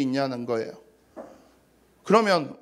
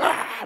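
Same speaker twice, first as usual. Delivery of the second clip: mock angry shout. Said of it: "막 이러고 있고".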